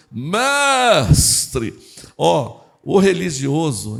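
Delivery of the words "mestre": loud, higher, long-held vowel; mock-pious hailing, stretched out; religious voice. Imagining this religious man hailing the master, put-on pious intonation. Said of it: "A entonação muda, já viu?".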